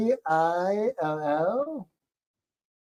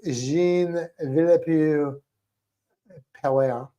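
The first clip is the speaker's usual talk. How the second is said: drawn-out French pronunciation of a name; French accent; slower than usual. Shown as a demonstration. Host introducing a French scientist, in a French accent. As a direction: say the name slowly, à la française. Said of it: "tell by the way he said that".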